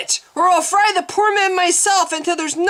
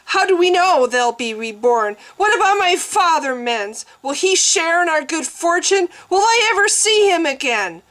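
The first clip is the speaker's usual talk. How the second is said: raging sobs; 7 semitones higher than usual. A narrator's reading. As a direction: demand answers through rage and tears. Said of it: "She was sobbing now with rage".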